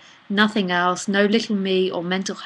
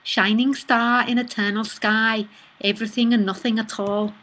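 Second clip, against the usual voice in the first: the same poem again, now in a Liverpool accent; attempted Liverpudlian accent. Shown as a demonstration. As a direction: read it with a wobbly Liverpool accent. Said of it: "A Liverpudlian accent".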